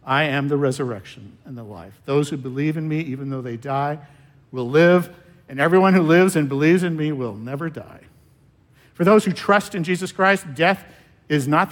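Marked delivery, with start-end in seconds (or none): 0.0-8.0 gentle, comforting. Shown as a demonstration. Preacher voicing Jesus comforting grieving Martha, gently. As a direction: speak the promise gently into her grief. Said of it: "And then he speaks to her pain".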